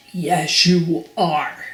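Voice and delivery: mildly irritated snap; snapped. Acted. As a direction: contradict him with a touch of temper. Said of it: "snapped Mister Uppity".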